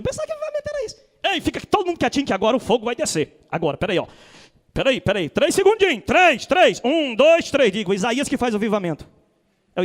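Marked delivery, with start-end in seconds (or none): 0.0-3.4 lightly voiced mock revivalist; mock fiery preacher. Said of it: "vocês vão até rir". 3.5-7.7 louder staged countdown; mock countdown.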